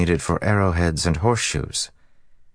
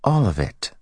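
calm and simple; 6 semitones higher than usual. Acted. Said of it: "as simply and calmly as if".

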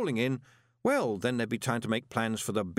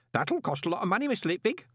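amazed; 9 semitones higher than usual. A narrator's reading. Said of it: "staring at him in amazement".

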